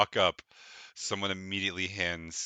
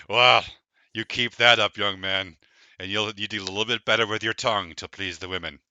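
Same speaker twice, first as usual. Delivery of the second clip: flirty dwarf woman; 9 dB louder than usual. Acted. Buxom dwarf woman teasing.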